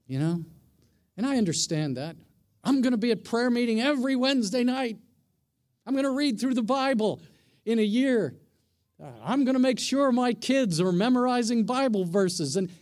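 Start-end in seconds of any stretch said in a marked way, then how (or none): 2.6-12.6 quick, bright, eager resolutions; eager churchgoer promises. Retold or imitated. Pastor imitating an eager church member's boasts, quick and upbeat. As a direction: rattle off big promises, brimming with zeal.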